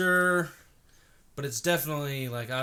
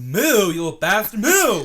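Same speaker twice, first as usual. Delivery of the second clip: loud, high rough call to a cow; shouted cow call with insult; California cow call; 7 semitones higher, 12 dB louder, slower than usual. Retold or imitated. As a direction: holler at the cow over the fence. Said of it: "a cow in California?".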